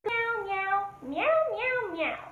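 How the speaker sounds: high meowing cat; playful high cat meows. Shown as a demonstration. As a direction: meow like a cat in the street. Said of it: "the last one is the cat".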